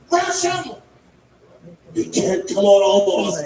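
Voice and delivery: rally everyone to attack; battle cry. Retold or imitated. Passenger charging, screaming.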